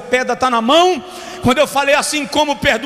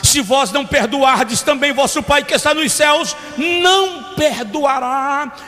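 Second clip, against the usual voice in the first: preaching at full force; 2 semitones higher, slower than usual. Acted. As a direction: proclaim the verse, stretching every word. Reads scripture at full force.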